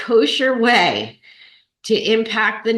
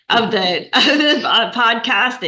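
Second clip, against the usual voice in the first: laughing through it; 3 semitones higher than usual. Real, not acted. Choking up, laughing it off.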